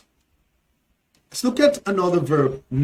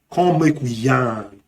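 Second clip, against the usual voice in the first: Nigerian Pidgin; 4 semitones lower than usual. Shown as a demonstration. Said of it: "can also be talk or yarn".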